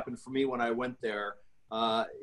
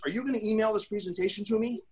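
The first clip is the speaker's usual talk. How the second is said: high, mock-hesitant customer voice; imitating a hesitant prospect; 7 semitones higher than usual. Salesman mimics a stalling customer, mock hesitant tone. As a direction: play the customer who is backing off.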